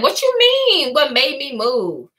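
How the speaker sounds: a light imitation of a touchy girl; defensive coworker.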